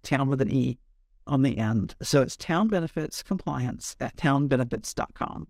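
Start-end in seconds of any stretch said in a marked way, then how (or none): 0.0-1.9 slow, careful spelling. Shown as a demonstration. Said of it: "our town is spelled T O W N E".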